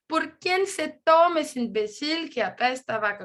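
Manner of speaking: put-on reading a Spanish example in her Spanish accent, switching briefly to French; lively Spanish-accented reading of a quoted speaker. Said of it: "vous réjouir avec mon accent".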